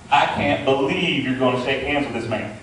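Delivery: lightly voiced disapproving grandma, a bit low; a hint of a cantankerous grandmother scolding; grandma's scolding voice. Grandma's ghost scolds him about the vice president, lightly voiced. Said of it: "I hear her voice".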